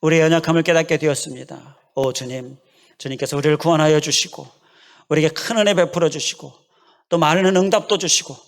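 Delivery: earnest pastoral prayer; building, fervent prayer. Acted. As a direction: pray sincerely for the congregation. Leads closing prayer.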